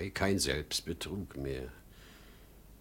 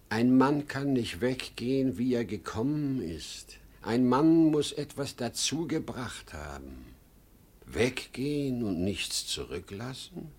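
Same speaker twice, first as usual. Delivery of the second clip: loud, higher, pleading insistence; insistent outburst; 5 semitones higher, 4 dB louder than usual. Acted. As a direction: make him understand, forcefully. Father insists passionately to Ben. (eindringlich und laut)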